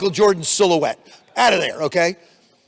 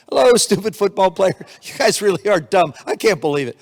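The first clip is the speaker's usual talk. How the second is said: mocking laughter. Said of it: "she's laughing at me".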